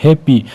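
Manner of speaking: हैप्पी broken in two, हैप-पी; split into syllables. Shown as a demonstration. Teacher letting students hear two sounds, हैप्पी split as हैप-पी. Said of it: "दो sound जो है वो".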